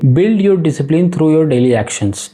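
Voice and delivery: each word drawn out slowly; slow emphatic motto. Shown as a demonstration. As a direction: spell the mantra out slowly so it sinks in. Reading out the point's motto. (धीमे, ज़ोर देकर बोला गया मंत्र)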